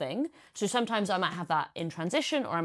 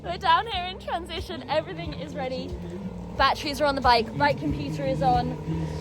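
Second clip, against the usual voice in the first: excited; 6 semitones higher, 5 dB louder than usual. Real, not acted. Excited race morning outdoors.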